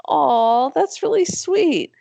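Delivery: touched. Retold or imitated. Retelling her touched reaction.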